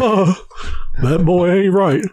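lightly voiced Texan dad, slow; a hint of drawl; Hank Hill impression. Quoting Hank Hill for fun, light Texan drawl. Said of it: "Hank Hill".

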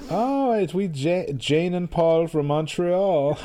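lightly put-on Quebecois tourist voice; Quebecois accent. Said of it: "that's my Quebecois accent".

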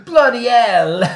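put-on loud, high New Zealand accent. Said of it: "That's a good New Zealand accent".

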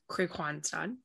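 Kristianstad said the Swedish way, slowly and carefully; Swedish pronunciation. Shown as a demonstration. Player teaching the host her club's name, careful Swedish pronunciation. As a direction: give Kristianstad its Swedish sounds, unhurried. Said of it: "so to pronounce the name".

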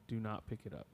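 hushed, ghostly "don't pick it up"; eerie whisper. Retold or imitated. Retelling a hunter's ghost story, a voice whispering in a spooky hush. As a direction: drop to a breathy hush as if unseen lips were at the ear. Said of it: "Something whispered in my ear".

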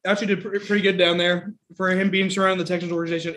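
lips on fire from spice; mouth burning from spicy food. Real, not acted. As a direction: talk through burning lips. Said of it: "dude, my lips are on fire".

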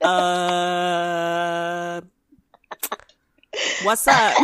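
clueless Camille. Retold or imitated. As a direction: toss it off cheerfully into the sobbing room. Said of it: "she's just like".

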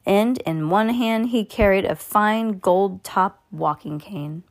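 measured read-aloud storytelling with lively emphasis; story narration. A narrator's reading. Reading a Roald Dahl chapter to a young listener, expressive story narration.

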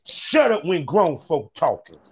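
a slow, lightly acted movie put-down; Pretty Tony. Host quoting the stick scene, slow mock reprimand. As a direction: stretch it out like a quoted scolding. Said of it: "Pretty Tony hit him with the stick and said".

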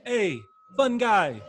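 slow, drawn-out accent imitation; Serge Ibaka. Broadcaster imitating a player's speaking voice, playful impression. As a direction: put on an admired accent, stretching each word. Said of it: "It's the best accent I've ever heard".

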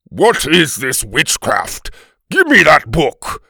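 slow, loud Viking demand; angry Viking. Acted. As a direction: thunder it as a suspicious Viking, rising in pitch.

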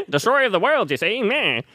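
high mock doom voice; grim reaper voice. Joining the death parody.

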